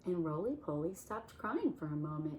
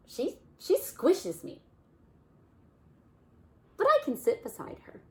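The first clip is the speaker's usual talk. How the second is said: whiny Bear; 10 semitones higher, 8 dB louder than usual. Acted. Bear complaining in story.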